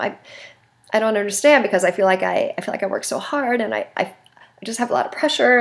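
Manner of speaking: teary-eyed plea. Shown as a demonstration. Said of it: "I might even start crying a little bit".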